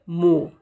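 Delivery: मो as m plus long o, no r; pronunciation demo. Shown as a demonstration. Teacher showing how the word is pronounced, मो without r. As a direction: sound out मो on its own. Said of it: "इसको उच्चारित करते हैं".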